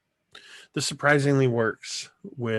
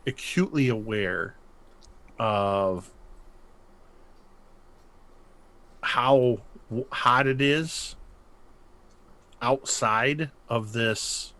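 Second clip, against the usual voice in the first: game master narration. Acted. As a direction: draw them into the dread. GM describes dread slowly.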